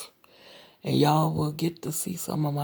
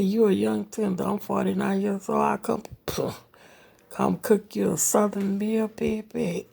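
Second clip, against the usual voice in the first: raised, playful come-on; teasing flirt; 4 semitones higher than usual. Retold or imitated. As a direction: sweet-talk him like you mean it. Flirting with sister-in-law's brother.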